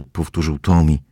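usual speaking voice

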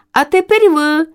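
high call up to the chicks; calling from below. Acted. Mother swallow calls up to her chicks to fly. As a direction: call up to them from the ground. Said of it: "закричала здолу".

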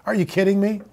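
soft, muttered disbelief under the breath; quiet incredulous mutter. Acted. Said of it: "repeated with growing emphasis".

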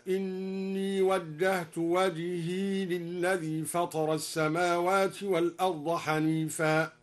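"وجهي" with silent ya, slow. Shown as a demonstration. Teacher demonstrates al-Duri's silent ya, slow tarteel. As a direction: slowly recite wajhi with no vowel on ya. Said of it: "وسكن الياء".

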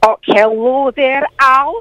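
a lightly put-on Scottish auntie, chatty and fond; Morag caller voice. Glasgow caller greets the radio host, in a lightly put-on Scottish auntie voice. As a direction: play the sweet old Glasgow lady caller.

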